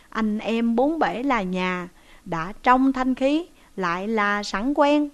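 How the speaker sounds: unhurried, measured reading of a couplet; slow verse recital. A narrator's reading. Storyteller pausing the tale for a verse, slow recital. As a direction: lean into the verse, drawing each phrase out.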